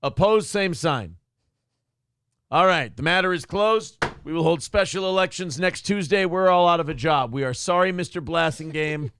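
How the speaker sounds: mock-official vote-taking; mock meeting chair. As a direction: formally wrap up the meeting, tongue in cheek.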